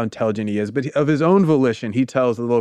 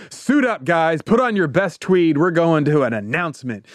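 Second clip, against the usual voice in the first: higher, lightly voiced eager professor rallying colleagues; mock professor; 3 semitones higher than usual. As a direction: hype up the colleagues like an excited old academic. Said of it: "He's like".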